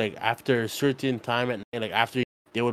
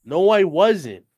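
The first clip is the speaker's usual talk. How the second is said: louder, slower, insistent no; emphatic denial; 6 semitones higher, 5 dB louder, much slower than usual. Real, not acted. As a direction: drag it out firmly. Arguing over HBO Max.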